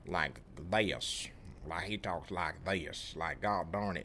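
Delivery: imitating a deep country drawl; deep country accent. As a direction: put on a thick country twang. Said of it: "I'm talking deep country".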